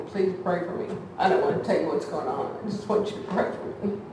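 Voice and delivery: imitating her own hushed, sheepish phone plea; quiet plea. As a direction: ask quietly with a small laugh. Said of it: "I called two or three people".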